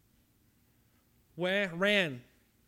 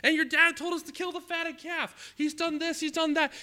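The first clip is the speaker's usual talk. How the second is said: much higher and louder, bursting with news; excited servant; 12 semitones higher, 9 dB louder than usual. Acted. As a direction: announce the homecoming with thrilled energy. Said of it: "the servant just really excited".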